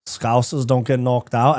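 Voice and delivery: a slow, lighter Scouse repeat; Scouse accent. Acted. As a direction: say it again with a slow Liverpool lilt. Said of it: "Not a bad accent".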